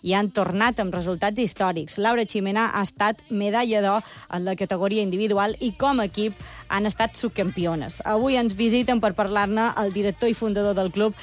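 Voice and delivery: lively, projected presenter read over music; radio intro read. Acted. Presenter introducing a cheerleading club to radio listeners, announcer read. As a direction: introduce the segment with upbeat, measured emphasis.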